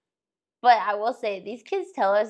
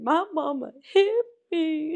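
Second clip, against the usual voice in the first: put-on upset little girl; 8 semitones higher than usual. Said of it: "She said".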